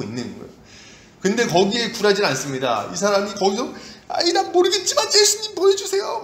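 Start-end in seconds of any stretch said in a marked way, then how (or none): 4.1-6.2 very high, defiant beggar's holler; crying out louder. Acted. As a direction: shout over those hushing you. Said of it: "막 소리를 더 지르는 거죠". (아랑곳없이 높게 외치기)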